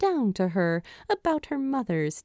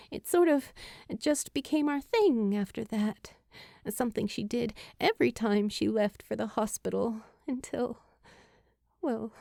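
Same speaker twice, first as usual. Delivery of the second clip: Julie, tender hushed memory; 2 semitones higher, 3 dB quieter, faster than usual. Acted. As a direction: let it come out quiet and fragile. Julie trails off about mother.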